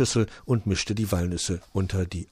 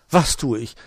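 confused; 4 semitones higher, 7 dB louder than usual. Acted. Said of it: "war die Elster verwirrt".

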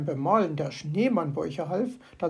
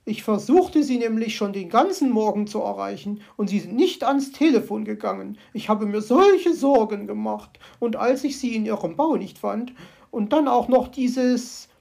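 louder, worried bird voice; fretful magpie; 2 semitones higher, 6 dB louder than usual. Acted. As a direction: pour out her worries. Magpie complains to fox.

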